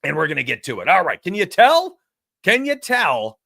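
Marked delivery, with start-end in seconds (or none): 1.2-3.4 loud, high, hyped-up question; excited. Real, not acted. Sports bettor hyping chat before the game, excited. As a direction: throw it out twice, loud and hyped. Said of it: "Can you tell I'm a little excited".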